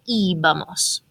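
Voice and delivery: íbamos with a long, stressed opening ee; stress on first syllable. Shown as a demonstration. Teacher shows where the emphasis falls, first-syllable stress on íbamos. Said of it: "this is where the emphasis is going to be".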